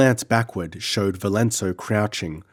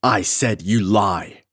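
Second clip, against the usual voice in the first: roared; slower than usual. Acted. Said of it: "roared Valenzo".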